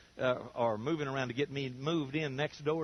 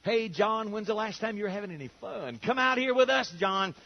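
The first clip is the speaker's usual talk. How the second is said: voice of pleasure calling; 4 semitones higher than usual. Acted. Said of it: "One of those voices is pleasure".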